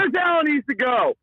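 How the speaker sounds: furious caller yelling the demand; angry shout. Real, not acted. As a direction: shout it at the coach.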